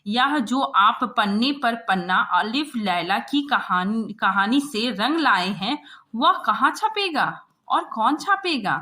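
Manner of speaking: loud, rising exasperated rebuke; irritated scolding. Acted. Chief correspondent scolding the reporter, loud and exasperated. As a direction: chew him out for this fairy-tale report. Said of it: "मतलब परेशान होकर कहा".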